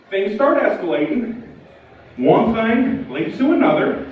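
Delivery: ominous pause. Shown as a demonstration. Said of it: "at the risk of things escalating, or one thing leading to another".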